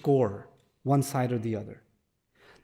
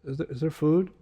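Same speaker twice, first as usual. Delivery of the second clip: put-on timid teen asking; 3 semitones lower, 7 dB quieter, much slower than usual. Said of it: "and he's like".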